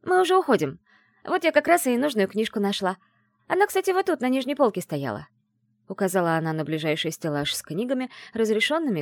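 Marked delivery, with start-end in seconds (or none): 0.0-5.3 higher, louder, cheery cover-up; bright cheerful friend. Acted. Friend smoothing things over with the librarian, higher and chirpy. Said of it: "широко улыбнулась библиотекарше и заявила".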